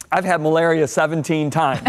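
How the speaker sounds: chuckling through the words; laughing while telling. Retold or imitated. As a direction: laugh it off lightly. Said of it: "and he's laughing".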